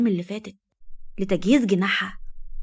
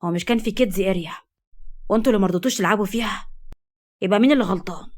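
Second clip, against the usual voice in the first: coldly. Acted. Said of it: "جواد ببرود".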